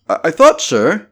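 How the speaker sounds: high, stammering landlady; flustered landlady. A narrator's reading. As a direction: stumble on it, caught off guard.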